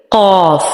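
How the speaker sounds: قاف heavy with a straight alif vowel; correct heavy qaf. Shown as a demonstration. Teacher giving the correct qaf. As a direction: say قاف, not قوف. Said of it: "قوف نہیں کر دینا اس کو بلکہ".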